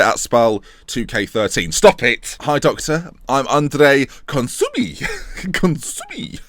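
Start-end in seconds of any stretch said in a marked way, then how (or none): 3.5-5.0 slow mock-Italian accent. Assistant introducing himself to the manager, Italian accent. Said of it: "doing the accent every time". 5.0-6.4 high, rising mock-Italian accent; playful Italian accent. Gamer repeating the assistant's surname, playful Italian accent. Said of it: "Like that".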